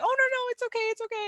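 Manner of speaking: high-pitched, imitated sweet reassurance. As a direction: play her kindly waving off an apology. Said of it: "she was very sweet about it".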